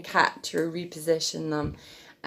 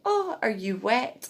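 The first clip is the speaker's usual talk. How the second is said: higher, rising coo; baby talk; 5 semitones higher than usual. Shown as a demonstration. Mum checking her wet baby, mild baby talk. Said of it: "if they're sick and you need to change their clothes".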